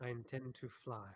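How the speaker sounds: wispy, airy, wind-like voice. Game narrator voicing a hovering being whose mouth doesn't move, wispy, windy voice. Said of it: "you do hear a wispy, windy voice".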